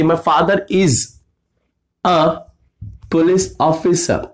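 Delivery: slow, spaced-out delivery; slow dictation. Shown as a demonstration. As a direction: stretch out each word. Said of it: "अगर लड़की बोल देती कि". (धीमे-धीमे खींच कर)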